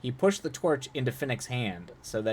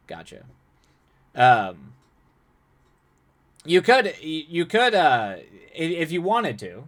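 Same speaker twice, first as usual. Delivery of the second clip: normal talking voice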